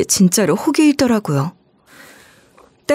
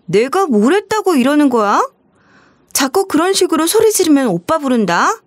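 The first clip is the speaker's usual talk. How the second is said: sharp retort; 6 semitones higher than usual. Acted. Sister-in-law threatening the mother.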